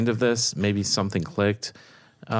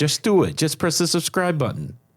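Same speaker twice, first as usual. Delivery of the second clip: bossy Brooklyn accent, pitched up; 9 semitones higher, 3 dB louder than usual. Urging listeners to press subscribe, the speaker gets directive in a brooklyn accent. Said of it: "Because I'm being directive".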